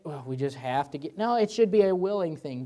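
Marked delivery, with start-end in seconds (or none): 0.0-1.2 low, soft, resigned imitation; mock a congregation giving out of duty; reluctant. People pressured by the pastor to give, reluctant. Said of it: "make the people feel like they".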